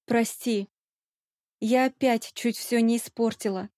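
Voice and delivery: teeth chattering from the cold. A narrator's reading. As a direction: mumble through chattering teeth. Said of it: "стуча зубами".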